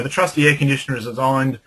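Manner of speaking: upbeat advert read with only a little inflection; radio ad read. Shown as a demonstration. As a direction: sell it like a talkback promo, toned down. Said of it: "how I did that was".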